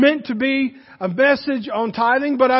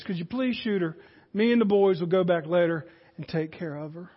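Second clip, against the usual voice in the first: put-on soft, heavy-hearted old uncle begging a favor; hushed, grieving request; sorrowful plea; 5 semitones lower, 5 dB quieter than usual. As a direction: plead quietly, weighed down by the mule's suffering. Old uncle pleading over sick mule.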